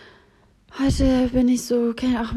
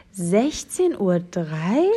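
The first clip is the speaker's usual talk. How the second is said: slow, disbelieving question; incredulous; 3 semitones lower, much slower than usual. Real, not acted. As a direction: drag out the time in disbelief. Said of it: "repeats in disbelief".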